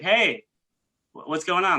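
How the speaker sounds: put-on casual catching-up tone; mock chummy greeting. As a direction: play the over-friendly acquaintance. Mimics people making fake-friendly approach.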